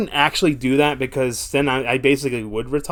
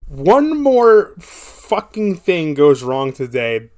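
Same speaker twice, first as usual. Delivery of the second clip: slow, heavy, louder frustration; slow angry emphasis; 3 semitones higher, 6 dB louder, much slower than usual. Real, not acted. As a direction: lean hard into every word, slowly. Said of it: "that's my headspace".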